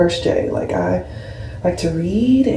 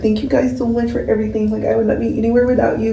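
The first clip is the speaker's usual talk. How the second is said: generic creator thanks; 3 semitones higher, faster than usual. Retold or imitated. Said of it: "every content creator is always like".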